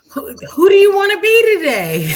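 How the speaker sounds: loud, high breathy shout-whisper; playful shouted whisper; stage-whisper shout. Real, not acted. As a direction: call it out in a hoarse stage whisper.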